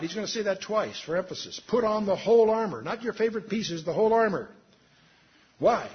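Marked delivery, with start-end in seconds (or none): 1.7-4.5 "whole" hit louder both times; stress on WHOLE. Real, not acted. Preacher ruling out favorite pieces of armor, stress on "whole". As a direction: lean hard on "whole", insisting on every piece.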